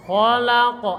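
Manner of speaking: "Khalaqa" with a raspy kho from the throat; throaty kho. Shown as a demonstration. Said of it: "suara berdahak". ("Khalaqa" dengan kho berdahak)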